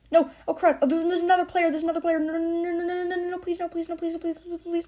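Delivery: high, panicked pleading; anguished denial. Real, not acted. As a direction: beg desperately, voice up high. Desperate pleading in a fight.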